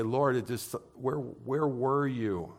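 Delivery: slow, hushed and aching, asking where God was; softly pleading prayer. Retold or imitated. Pastor recalling his mother's death, slow hushed plea. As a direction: let the question hang, quietly hurting.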